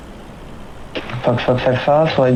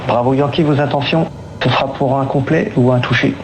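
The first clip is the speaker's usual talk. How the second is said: air traffic control radio. Real, not acted. Controller speaking over cockpit radio.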